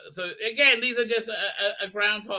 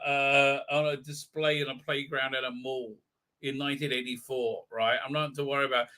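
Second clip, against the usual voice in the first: lightly voiced statue; 4 semitones lower than usual. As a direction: mumble like a bored statue calming them down. Statue voiced answering the screams.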